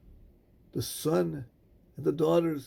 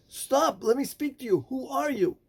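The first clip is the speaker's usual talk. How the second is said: higher, urgent call to a stranger; 7 semitones higher than usual. Acted. Rabbi Akiva calls out to the working man, urgent. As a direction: call out to make him stop.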